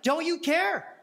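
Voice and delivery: mock hurt, dragging the final words; slow, pleading complaint. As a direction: stretch the last question like a plea. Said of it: "she's like".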